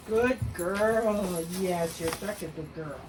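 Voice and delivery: soft, low praise for a puppy; praising a dog. Real, not acted.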